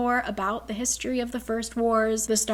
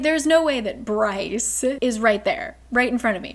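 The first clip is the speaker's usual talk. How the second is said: laughing; 4 dB louder than usual. Retold or imitated. Hunt stunned, laughing.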